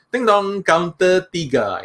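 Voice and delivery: sing-song ding dong, then slow counter call; playful announcer call; mock queue call. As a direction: chime it like a bank queue machine. Queue number call chime.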